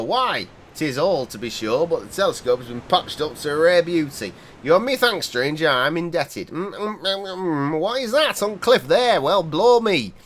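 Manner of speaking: lightly voiced gruff old local; a hint of a wary old seaman; old fisherman. Player reading the old fisherman warning a stranger, lightly voiced.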